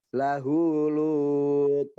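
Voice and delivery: "Lut" with a bouncing t release, very slow; qalqalah on Lut. Shown as a demonstration. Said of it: "Kolkolahnya, Pak".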